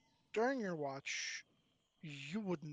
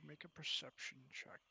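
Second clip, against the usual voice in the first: whisper; 6 dB quieter than usual. Real, not acted. Whispered request.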